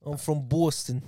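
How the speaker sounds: rounded vowel mock Boston; put-on Boston accent. Shown as a demonstration. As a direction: introduce yourself as a Bostonian. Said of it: "Can you do a Boston accent?".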